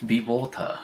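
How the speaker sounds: a mock Bruce Lee accent, slow and laughing; lightly imitating Bruce Lee's Hong Kong accent, drawn out. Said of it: "I would stop doing the accent personally".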